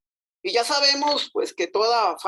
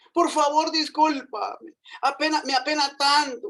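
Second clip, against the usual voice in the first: pleading again; 6 semitones higher than usual. Acted. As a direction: stretch out the plea. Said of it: "volvió a suplicar".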